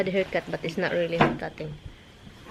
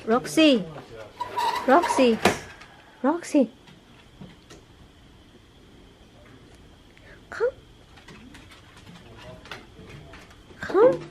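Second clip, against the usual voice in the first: calling out; slower than usual. Real, not acted. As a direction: call the dog from across the yard. Calling the dog repeatedly.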